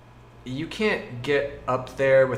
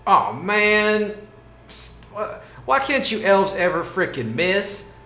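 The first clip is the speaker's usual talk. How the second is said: frustrated groan; 8 semitones higher, 5 dB louder, slower than usual. Acted. GM groans at a hit.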